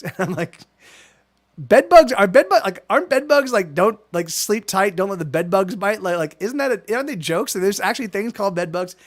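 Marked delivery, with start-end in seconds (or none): 1.6-8.9 can't believe bed bugs are real, not just a bedtime joke; incredulous disbelief. Retold or imitated. Telling his friend Mel on Guild Wars, incredulous that bed bugs exist.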